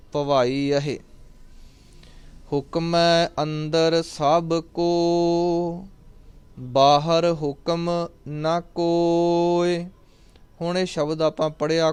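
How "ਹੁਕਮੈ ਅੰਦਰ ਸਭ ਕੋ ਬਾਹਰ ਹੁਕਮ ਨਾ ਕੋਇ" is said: drawn-out, chanted reading of the line; slow devotional chant; slow scripture recitation. Acted. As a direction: recite it slowly and reverently.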